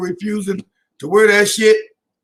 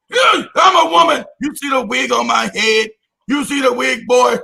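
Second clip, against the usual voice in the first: hammed-up woman voice. Mocking dialogue.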